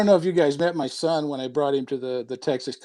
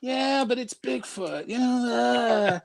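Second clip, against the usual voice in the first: unimpressed; 6 semitones higher, 5 dB quieter, much slower than usual. Retold or imitated. Teen son dismissing dad's art.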